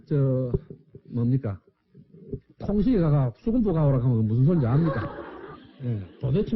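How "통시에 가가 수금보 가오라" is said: thick rural Gyeongsang dialect demo. Shown as a demonstration. Lecturer demonstrates baffling dialect for the audience, thick Gyeongsang accent. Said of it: "우리 사투리 한번 써볼까요".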